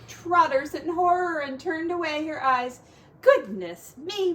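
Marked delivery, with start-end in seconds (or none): 3.2-4.3 higher, slow, louder Goodness me; a scandalised mother; shocked gasp. Acted. Mrs Pig horrified.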